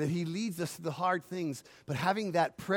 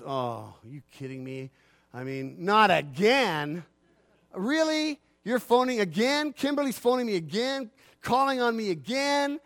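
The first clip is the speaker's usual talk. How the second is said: exasperated complaint; 2 semitones higher than usual. Retold or imitated. Imagined exasperated God.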